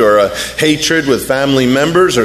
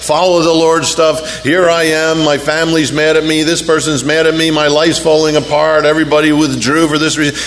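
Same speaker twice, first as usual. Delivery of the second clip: higher, nagging I-told-you-so voice; mock a griping Israelite; whining complaint; 4 semitones higher than usual. Israelites griping at Moses, higher whiny mock complaint. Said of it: "they said to Moses".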